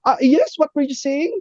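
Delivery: high-pitched, suddenly obliging voice; suddenly nice. Retold or imitated. Stewardess turning back to the passenger, suddenly nice. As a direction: imitate a stewardess turned sweetly helpful. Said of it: "iba ng face niya".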